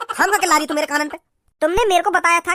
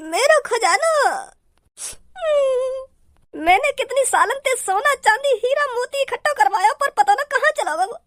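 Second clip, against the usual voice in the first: lamenting boss; 6 semitones higher, slower than usual. Acted. Boss laments his lost treasure.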